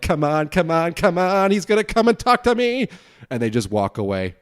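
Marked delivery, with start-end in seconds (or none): 0.0-2.9 rising higher and higher, mock-panicked pleading; hammering the button, begging the light to change; panicked stranger. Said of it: "they press the crosswalk button, like".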